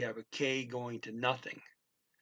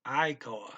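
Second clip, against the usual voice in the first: "aikoa" loud on the opening "ai"; clearly enunciated "aikoa", stressed at the front; first-syllable stress; 5 dB louder than usual. Shown as a demonstration. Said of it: "put the emphasis on the first".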